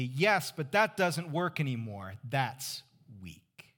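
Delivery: dismissive retort. Retold or imitated. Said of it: "The response would be".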